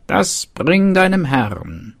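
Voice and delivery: high, slow, whispered witch voice; witch's whisper. Acted. Witch whispers to the servant to take the poison to his master. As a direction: hiss it like a scheming old witch.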